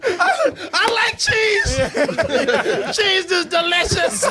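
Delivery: high, slow, dopey mock shout; dumb moviegoer. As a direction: play a dimwit yelling at the screen. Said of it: "Like, like, like".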